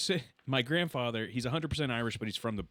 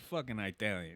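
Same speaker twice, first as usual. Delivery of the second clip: put-on Bronx accent; 5 dB quieter than usual. Repeating grandpa's line, quiet Bronx accent. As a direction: mimic a Bronx pronunciation, quieter. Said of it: "So he has a Bronx accent".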